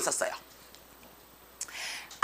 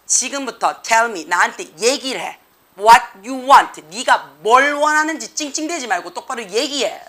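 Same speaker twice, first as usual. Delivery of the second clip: imitating a firm dad, deliberate stress on key words; firm father. Father telling whining toddler to speak up, firmly. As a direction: lay down the rule like a firm father. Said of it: "아빠가 단호하게 얘기를 했죠".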